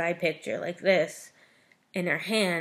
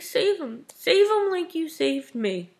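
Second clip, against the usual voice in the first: higher, louder desperate begging; pleading; 8 semitones higher, 5 dB louder than usual. Retold or imitated. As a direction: beg them as if his life depends on it. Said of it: "Feyre just begs to the other High Lords".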